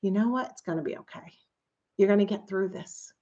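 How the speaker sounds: quiet, gentle comfort; a hushed, kind tribe voice; soft reassurance. Retold or imitated. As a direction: soothe someone who is scared. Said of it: "a tribe saying".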